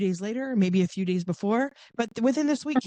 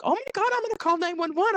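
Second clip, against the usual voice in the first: flustered; 10 semitones higher, faster than usual. Retold or imitated. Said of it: "she's like".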